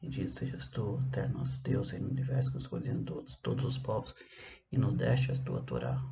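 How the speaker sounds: soft, half-voiced Portuguese prayer; murmured blessing. Real, not acted. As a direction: recite the prayer quietly to yourself. Recites the blessing's translation in Portuguese.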